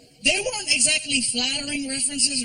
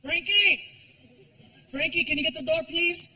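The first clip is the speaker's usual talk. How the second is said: calling out; 6 semitones higher than usual. Retold or imitated. Calling son to door.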